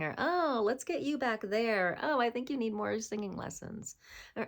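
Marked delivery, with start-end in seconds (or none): 0.2-2.0 dismissive choir teacher. Retold or imitated. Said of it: "a choir teacher or when a parent said". 2.0-4.0 condescending teacher. Retold or imitated. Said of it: "a choir teacher or when a parent said".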